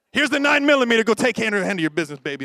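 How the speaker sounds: a joking husband hiding behind his wife; mock cowardly husband. Husband handing his wife the gun, hammed-up cowardly.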